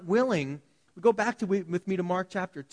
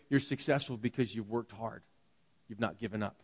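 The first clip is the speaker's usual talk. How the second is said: gentle, earnest praise; 7 semitones lower, 7 dB quieter than usual. Retold or imitated. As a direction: lower and softer, sincere encouragement. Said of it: "They tell their kids".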